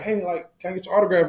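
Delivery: a hint of a little fan piping up; young fan. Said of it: "little younger fans coming up".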